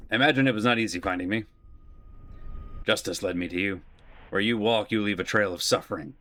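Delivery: quick, cold incarnation voice. Acted. Incarnation mocking Valor's long hunt, cool voice. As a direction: brush off the hunter coolly. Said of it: "the incarnation voice".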